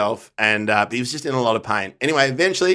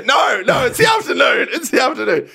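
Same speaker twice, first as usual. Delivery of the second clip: put-on Irish accent; 12 semitones higher, 3 dB louder than usual. Mock Irish correction continues.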